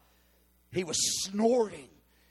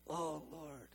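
weeping prayer; 3 semitones lower, 11 dB quieter than usual. Retold or imitated. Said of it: "gently weeping".

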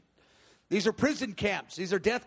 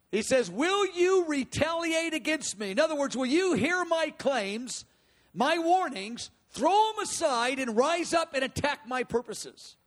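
raised, forceful divine challenge; God's defiant challenge; 4 semitones higher than usual. Retold or imitated. God challenging nations who attack his purposes, forceful and raised. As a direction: dare them to strike back. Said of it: "He goes".

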